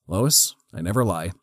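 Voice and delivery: measured, sincere hero quote with a pause after the name; dead earnest. Retold or imitated. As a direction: say it as a solemn promise. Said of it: "looks at her dead in the eye".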